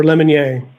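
Lemonnier said LEM-un-yay; alternative pronunciation. Shown as a demonstration. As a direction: stress the first syllable of Lemonnier, end on AY. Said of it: "is it Lemonnier or".

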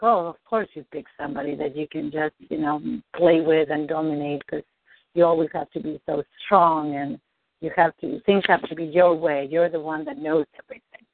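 a dad's putdown, acted low and understated; lightly voiced dad. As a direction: lightly imitate her dad passing judgment. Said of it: "imagine your dad in front of you saying that".

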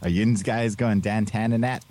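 slow, put-on Pennsylvanian dialect; Pennsylvanian accent. Shown as a demonstration. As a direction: show off some local Pennsylvanian talk, drawn out. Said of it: "teach me how to speak Pennsylvanian".

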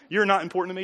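curt, cold brush-off on "You're not important to me"; blunt dismissal. Shown as a demonstration. Preacher showing the wrong way to decline, bluntly. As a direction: say it as a rude put-down. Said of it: "Don't say it like that".

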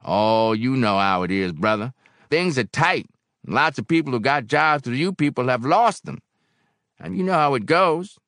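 high, loud explanation to a trusted brother; troubled barkeep Barrel House. A narrator's reading.

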